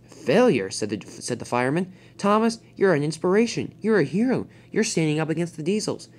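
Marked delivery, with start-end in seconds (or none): 0.1-0.7 disbelieving. Acted. Fireman disputes Thomas's self-blame. 2.2-6.1 higher, emphatic pep talk; rally a discouraged friend; earnest encouragement; encouraging. Acted. Fireman cheers up discouraged Thomas.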